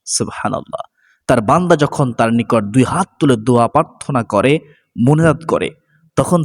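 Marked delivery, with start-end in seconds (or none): 0.1-1.0 whispered awe. Real, not acted. Awed aside after hadith.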